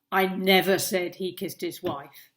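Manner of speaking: never hit firmly, with a falling end; stress on never. Shown as a demonstration. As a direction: land the weight on never. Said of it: "That is a great demonstration how, of how tone of voice completely changes a sentence".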